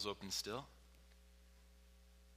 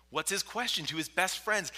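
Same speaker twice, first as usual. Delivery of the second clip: higher, louder preacher's repeat; raised insistent question; 7 semitones higher, 5 dB louder than usual. Real, not acted. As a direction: drive the question home with force.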